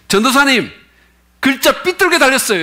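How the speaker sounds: mock high call from below; young sister calling out. Organist sister calling to evangelist. (오르간 치는 자매가 전도사에게 높은 목소리로 외치듯)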